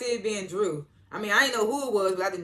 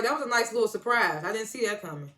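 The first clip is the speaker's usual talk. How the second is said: lightly acted surprise, pitched up at first; mock amazement that settles down; pleasantly surprised; 4 semitones higher, 3 dB louder than usual. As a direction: replay a surprised reaction, easing off. Acting out own surprised reaction.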